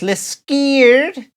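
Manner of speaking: slow robotic sat nav saying list scared. Retold or imitated. Imitating the sat nav mangling Liskeard, slow. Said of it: "it says".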